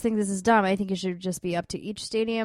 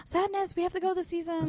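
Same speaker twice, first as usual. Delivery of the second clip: gasp, then much higher dismay; surprised; 9 semitones higher, 6 dB quieter than usual. Real, not acted. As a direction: gasp in playful shock. Gasps at friend's admission.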